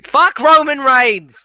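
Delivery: abrupt, emphatic swearing; exasperated outburst. Real, not acted. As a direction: burst out loudly against the wrestler. Breaks off lyrics to curse.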